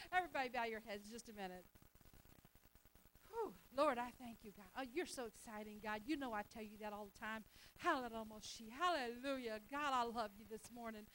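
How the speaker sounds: fervent pastoral prayer. Real, not acted. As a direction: pray over the congregation. Leads congregation in prayer.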